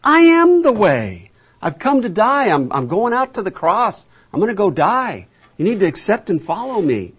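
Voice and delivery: exasperated high-pitched insistence; Jesus. Acted. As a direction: press the point to followers who don't get it, pitched high. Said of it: "He said".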